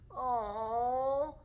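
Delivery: long drawn-out mock moan; mild moan.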